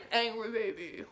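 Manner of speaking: scrunch up small and go soft; tiny scrunched angry baby. Shown as a demonstration. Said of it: "super small like an angry baby".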